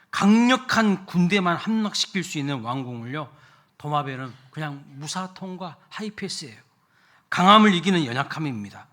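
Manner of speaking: loud, rising sermon delivery, pressing each point; full-force preaching. Acted. Preaching climax. (힘있게 외치는 설교)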